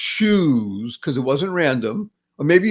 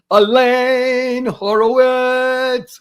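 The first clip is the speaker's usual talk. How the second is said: high, drawn-out ring-announcer call; announcer introduction; 9 semitones higher, 4 dB louder, much slower than usual. Real, not acted. Host introduces his guest, announcer fanfare. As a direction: stretch the name out like a big introduction.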